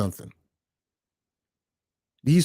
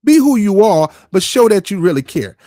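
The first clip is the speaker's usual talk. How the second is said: loud, emphatic plea; louder, insisting; loud demand to be genuine; 2 semitones higher, 6 dB louder than usual. Real, not acted.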